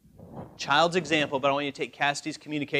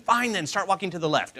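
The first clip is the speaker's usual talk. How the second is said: exasperated giving in; 4 semitones higher, 3 dB louder than usual. Acted. Acted giving in to nagging legs.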